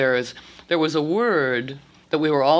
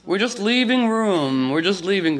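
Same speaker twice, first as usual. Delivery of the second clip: high mock voice; 5 semitones higher than usual. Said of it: "and we go".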